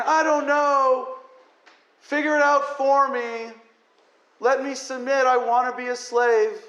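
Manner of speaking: mocking a helpless, needy voice; mock helpless whine. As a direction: whine like a helpless follower begging. Mocking helpless submissive people.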